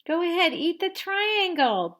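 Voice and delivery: high, loud push; bossy urging. Acted. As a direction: press her to eat it. Sister urging loudly.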